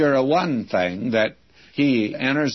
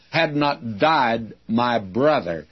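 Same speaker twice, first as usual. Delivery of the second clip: "Had" leaned on, slowly, words put first; preacher reading the Greek order, stressing "Had"; slower than usual. Shown as a demonstration. Preacher showing the Greek word order, slow stress on "Had". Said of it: "in the Greek, that which is important is put first".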